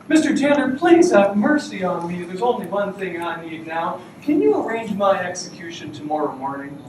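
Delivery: high, loud mock begging; pleading prisoner. Second prisoner begs the jailer, hammed-up high plea. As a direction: beg for mercy in a high, hammed-up voice.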